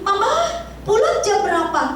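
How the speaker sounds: lightly voiced child, high call of Mama; a hint of a little child pleading; child asking mother. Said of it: "Joy suka bilang begini". (anak kecil bertanya manja)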